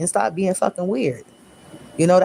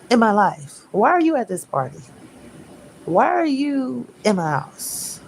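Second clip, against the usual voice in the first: higher, exaggerated annoyed questioning; hammed-up fed-up rant at an unwanted guest; mock irritated rant; 6 semitones higher than usual. Reader acts out an annoyed rant.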